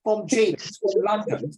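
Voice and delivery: teacher slips into a jokey British voice; mock British accent. Teacher introducing the London reader in a mock British accent. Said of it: "why am I talking like a British?".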